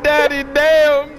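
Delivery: high, loud, drawn-out imitation; stretched, high mock yell; mimicking a loud outburst. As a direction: holler it slowly in mock amazement. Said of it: "He said".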